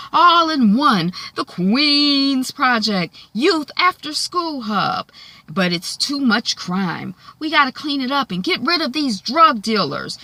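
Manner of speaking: mock politician addressing the neighborhood; politician's pitch. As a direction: sell it like a stump speech, stretching key words. Acting out politician's street campaign pitch.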